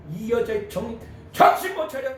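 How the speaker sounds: mock scolding of a foolish act. Disciples rebuking the woman, scolding. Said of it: "이 여자를 막 책망했어요".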